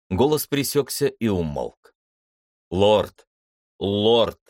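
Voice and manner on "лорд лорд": loud urgent call into the silence. Acted. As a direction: call his name again and again, desperate. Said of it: "звал капитан". (громкий отчаянный зов)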